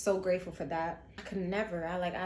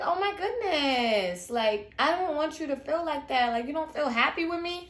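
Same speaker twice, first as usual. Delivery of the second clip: higher, louder wounded plea; hurt; 6 semitones higher, 4 dB louder than usual. Retold or imitated. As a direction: retell it as a hurt, stunned appeal. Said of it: "I was hurt by that".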